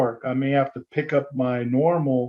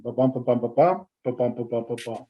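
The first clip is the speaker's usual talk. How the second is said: rhythm beat demo; 2 semitones lower, faster than usual. Shown as a demonstration. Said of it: "everything has a rhythm".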